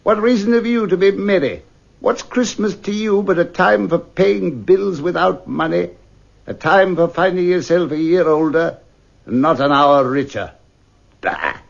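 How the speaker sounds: bitter rant with a scornful mock of the greeting; ranting old miser. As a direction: spit out his contempt. Scrooge rants at nephew.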